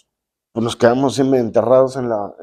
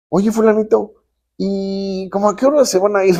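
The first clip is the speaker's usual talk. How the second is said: imitated sweet mother, pitched much higher; mock-polite hint that it's time to go; a high, sugary imitation of a host mother; 9 semitones higher than usual. Mother hints guest should leave.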